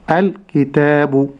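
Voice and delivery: الكتاب drawn out slowly, each letter clear; slow recitation. Shown as a demonstration. Sheikh models الكتاب for students, slow and careful. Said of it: "ولكن أقول".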